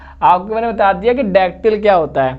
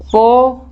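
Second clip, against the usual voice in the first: पो held, higher and with full weight; stressed syllable; 4 semitones higher, 4 dB louder than usual. Shown as a demonstration. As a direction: punch पो and take time on it. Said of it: "time लग रहा है". (पो पर खींचकर ज़ोर)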